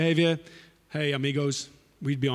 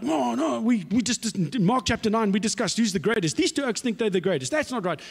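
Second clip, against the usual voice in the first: higher indignant protest; upset; 7 semitones higher than usual. Retold or imitated. Other ten complain about James and John, indignant. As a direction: complain like offended disciples. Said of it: "they get upset".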